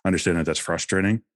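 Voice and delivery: flat robotic monotone. Shown as a demonstration. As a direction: recite it like a robot, no feeling. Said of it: "you don't have to say it like a robot, like I just did".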